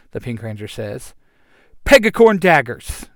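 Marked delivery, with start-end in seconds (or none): 1.8-3.1 loud, high weapon call; summoning yell. Acted. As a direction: shout the weapon name proudly. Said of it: "the Yellow Ranger yells".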